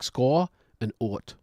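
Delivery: "score" and "ot" sounded as the two halves of Scottish "Scot"; two-syllable breakdown. Shown as a demonstration. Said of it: "two syllables of that".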